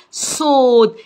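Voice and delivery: "صوت" with a long, held rounded vowel; long vowel sound. Shown as a demonstration. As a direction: stretch the vowel in "صوت" slowly. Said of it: "هخليها لكم بالايه عشان تبقى".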